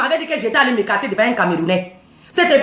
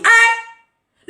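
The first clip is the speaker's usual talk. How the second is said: indignant huh; 9 semitones higher, 4 dB louder than usual. Real, not acted. Indignant exclamation.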